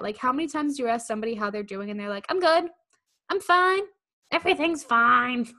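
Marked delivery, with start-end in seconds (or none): 2.3-5.5 high, loud, over-bright insistence that all is fine; mock-chipper cover-up, pitched up; falsely cheerful. Friend asked how they're doing, falsely cheerful.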